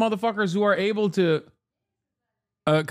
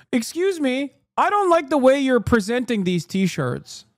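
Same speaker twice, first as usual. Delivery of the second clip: higher, fussy complaining shopper; annoying customer; 5 semitones higher than usual. Retold or imitated. Streamer mocking a fussy retail customer, higher fussy voice. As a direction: nitpick the t-shirt folding. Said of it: "some annoying asshole comes in and is like".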